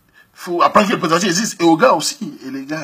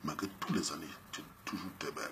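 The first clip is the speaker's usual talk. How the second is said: ex sweet-talking; 11 semitones lower, 15 dB quieter than usual. Retold or imitated. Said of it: "il la voit dans la rue".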